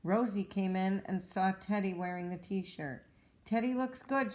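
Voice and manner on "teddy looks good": giggling. Acted. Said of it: "she giggled".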